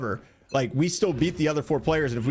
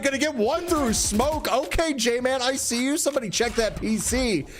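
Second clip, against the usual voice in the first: mounting, higher-pitched esports call; urgent live caster commentary climbing high; excited play-by-play; 5 semitones higher than usual. Real, not acted. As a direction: keep building as the fight unfolds. Live play-by-play of deciding fight.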